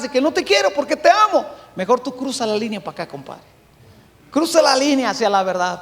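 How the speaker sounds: a hint of a tender dad talking to his son; loving father. Father telling his son he loves him, lightly tender. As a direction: gently reassure the son. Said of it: "Decirle a su hijo".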